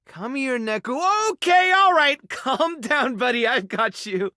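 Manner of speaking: high-pitched fussing reassurance; soothing a pet. Acted. Gathering up frightened Neku, calm down buddy, soothing.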